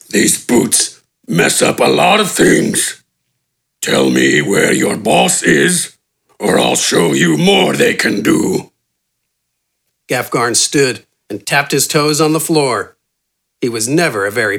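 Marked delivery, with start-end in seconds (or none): 0.1-8.7 menacing giant. A narrator's reading. Gafgarn threatens bandit.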